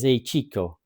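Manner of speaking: put-on light Cuban-accented greeting, Razor Ramon style; a quick hint of a Cuban accent, swaggering; Razor Ramon's Cuban accent. A quick hint of a Cuban accent as he opens his promo to Bret. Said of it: "I'm not gonna do that accent".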